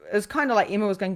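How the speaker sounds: ordinary delivery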